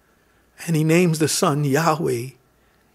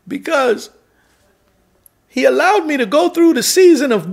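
aggrieved lament; 5 semitones higher than usual. Acted. Voicing Zechariah's complaint.

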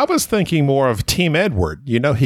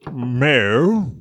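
put-on accented moo. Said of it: "Where would this cow be from?".

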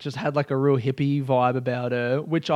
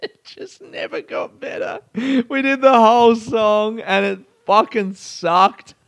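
laughing through words; 7 semitones higher, 3 dB louder, slower than usual. Real, not acted. Laughing at the bombed song.

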